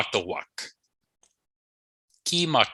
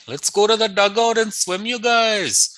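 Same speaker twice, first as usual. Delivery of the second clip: higher, bright call to friends; eager invite; 9 semitones higher than usual. Acted. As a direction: call your friends to come swimming.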